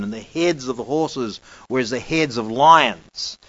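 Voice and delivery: measured, solemn bible reading; scripture reading. Acted. Preacher reads Revelation aloud to the congregation, solemn. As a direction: read the verses with weight.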